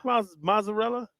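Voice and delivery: "Mozzarella" as "MOZ-a-rella", buzzed Z, no T; failed attempt at mozzarella. Real, not acted. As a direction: try "Mozzarella" and miss the T. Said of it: "you just can't get it".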